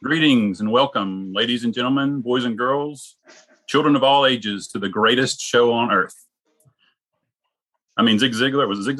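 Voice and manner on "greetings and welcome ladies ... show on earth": booming circus ringmaster announcing. Pretend. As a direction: announce it like a big top ringmaster. Circus ringmaster opening the podcast.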